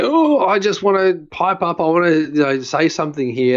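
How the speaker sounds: mock itching to pipe up; squirming eagerness. Imitating restless listeners dying to chime in, squirming eagerness. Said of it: "feel people squirming in their seats".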